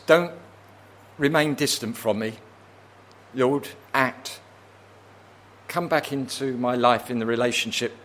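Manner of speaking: subdued acted plea; pleading. Psalmist asking the Lord to come back into his life, subdued pleading. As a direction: ease into a gentle entreaty. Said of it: "what he is pleading on".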